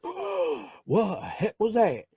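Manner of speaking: high, shocked yelp of a newborn; startled baby. Retold or imitated. Newborn just spanked by the doctor, shocked. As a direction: squeal it like a slapped baby. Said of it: "you're like".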